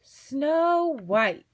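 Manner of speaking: put-on high, loud girlish delight; gushing. A narrator's reading. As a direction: gush over a favourite story. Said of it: "gushed the girls".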